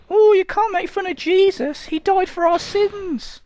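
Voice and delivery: high, slow churchy voice; mock pious scold. Scolding himself for mocking Jesus in a mock-pious voice. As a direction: play the shocked believer.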